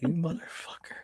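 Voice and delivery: unvoiced muttered swear; seething whispered cuss; whispered curse. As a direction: whisper the insult under your breath. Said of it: "I'm like".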